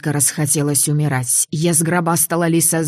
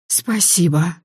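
breathed out; 2 semitones higher, slower than usual. Acted. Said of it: "выдохнула я".

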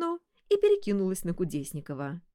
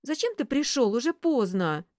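high whiny protest; whining; 6 semitones higher, 4 dB louder than usual. Acted. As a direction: whine it out. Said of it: "заныла Василиса".

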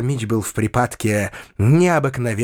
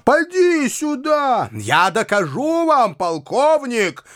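slow, higher commanding call; higher slow shouted summons; shouting; 11 semitones higher, slower than usual. A narrator's reading. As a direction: summon him pitched up and slow. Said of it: "кричал Фома".

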